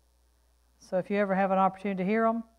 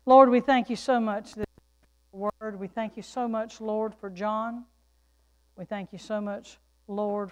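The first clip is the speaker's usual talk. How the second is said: prayer. Real, not acted. Leads congregation in prayer.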